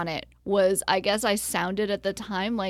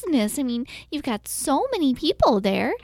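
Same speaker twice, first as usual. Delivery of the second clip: pushy saleswoman Trish; 5 semitones higher than usual. Acted. Trish's sales pitch in improv.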